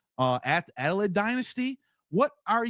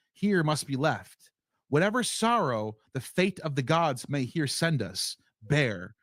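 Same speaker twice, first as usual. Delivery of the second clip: solemn verse reading; 3 semitones lower than usual. Acted. To the audience, reading Pythagorean verses in a solemn measured voice. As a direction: read it like a sacred text, unhurried. Reads ancient verses aloud.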